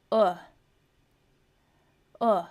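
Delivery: अ said short and relaxed; short u sound. Shown as a demonstration. Teacher demonstrating अ as a short vowel. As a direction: clip अ short like in put. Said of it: "ये है दूसरा यू का sound".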